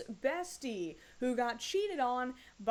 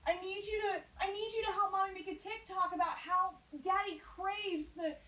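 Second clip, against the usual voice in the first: much higher, wheedling mommy; sugary mom voice; 5 semitones higher than usual. Pretend. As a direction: coax sweetly with a hint of tears. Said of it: "what this little girl's life".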